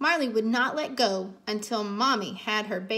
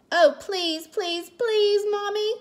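high, louder, drawn-out pleading; beg, stretching each please higher; begging child; 9 semitones higher, 5 dB louder than usual. A narrator's reading. Cassie begs Mommy to keep Marley, insistent pleading. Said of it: "Cassie said".

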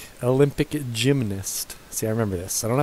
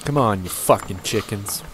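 aggressive. Real, not acted. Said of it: "That was really aggressive".

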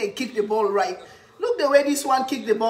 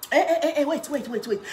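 excited alarm; 5 semitones higher than usual. Real, not acted. A goal is coming.

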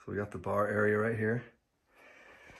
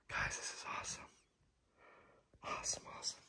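hushed, confiding whisper; excited whisper; 16 dB quieter, faster than usual. Real, not acted. Host telling viewers the secret suite is awesome, excited whisper.

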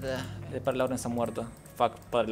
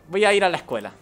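louder and higher, insistent; emphatic declaration; 8 semitones higher, 10 dB louder than usual. Real, not acted. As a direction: say it firmly, exasperated. Repeating line with emphasis.

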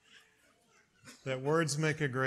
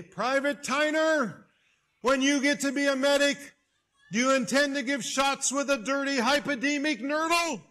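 angry officer yell; 11 semitones higher, 6 dB louder than usual. Retold or imitated. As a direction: bellow the question right in his face. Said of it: "In his anger and his hurry, he yelled at me".

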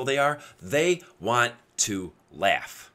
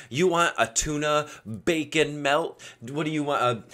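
joking hype with raised pitch; upbeat flattery; 3 semitones higher than usual. Retold or imitated. Buddy flattering the sandwich guy, upbeat and joking. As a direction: hype him up playfully. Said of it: "say it very upbeat".

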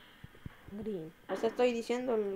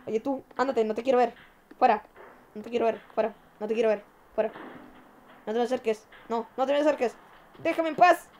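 mock yelling; 5 dB louder, faster than usual. Yelling at the Snow Bear.

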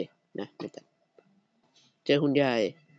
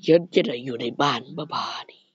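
slow mock lament; 4 semitones lower, slower than usual. Dramatic mock lament in game.

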